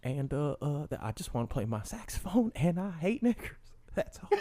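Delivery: a lightly voiced Clinton confessing; Bill Clinton impression. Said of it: "making my impersonation".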